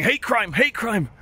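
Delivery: high mock cry of accusation; hammed-up high guard voice; indignant Eastern European guard. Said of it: "So he starts saying".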